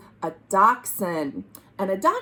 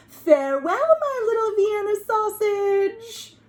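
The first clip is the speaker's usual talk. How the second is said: mother calling out; 9 semitones higher than usual. Acted. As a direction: call out sweetly to a little son across the yard. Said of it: "waving and calling out".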